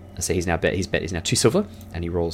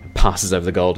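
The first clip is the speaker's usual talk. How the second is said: ordinary talk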